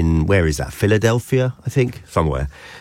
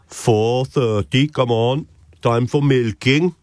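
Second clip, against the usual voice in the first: Amish farmer voice; 4 semitones higher, slower than usual. Retold or imitated. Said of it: "burst out laughing when I did that".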